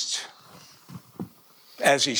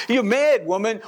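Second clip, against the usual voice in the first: loud, higher scoffing cry; incredulous shout; 6 semitones higher, 9 dB louder than usual. Acted. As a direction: shout it like she's lost her mind. Disciples answering Rhoda at door.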